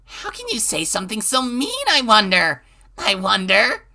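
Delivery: eerie singsong. Acted. Rena's eerie reply.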